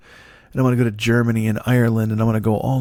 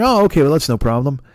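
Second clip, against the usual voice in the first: accommodating restaurant guy; 4 semitones higher, 5 dB louder than usual. Retold or imitated. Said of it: "the guy's like".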